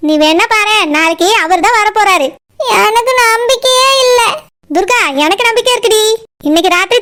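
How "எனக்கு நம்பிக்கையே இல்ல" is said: slow, tearful despair; hopeless words through tears; crying. Acted. Girl tells friend she has no hope, crying. நீ first அழுகையை நிறுத்து.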